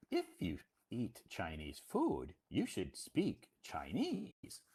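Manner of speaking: slow, deliberate imitation of his reply; spelling it out. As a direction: lay down the rule slowly, imitating him. Acted reply spelling out the rule.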